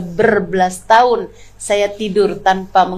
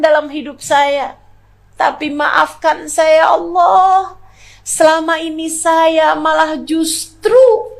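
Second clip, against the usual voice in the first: raised, pleading voice, close to tears; tearful prayer; 5 semitones higher than usual. Retold or imitated. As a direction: beg God's forgiveness with a choked-up voice. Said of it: "Dibilang saya menangis terus". (doa memohon ampun sambil menahan tangis)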